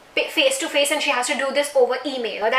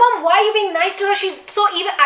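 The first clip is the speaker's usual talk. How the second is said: imitating crying plea; 5 semitones higher than usual. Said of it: "I was really crying".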